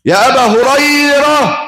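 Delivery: high, slow call from afar; mother calling out. Acted. Preacher voices the mother calling Abu Hurairah from far. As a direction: call his name across the house. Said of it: "فندهت عليه".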